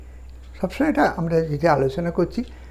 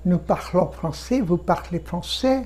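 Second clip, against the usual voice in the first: slow drill; 4 dB quieter, much slower than usual. Shown as a demonstration. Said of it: "আমি ফরাসি বলি".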